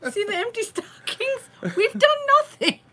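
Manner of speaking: high-pitched comic alarm; mock panic. Joking panic over unprepared Christmas.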